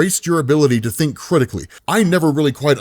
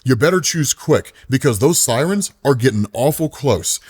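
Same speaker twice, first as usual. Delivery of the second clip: sly ice cream man. Acted. Ice cream man offers choice.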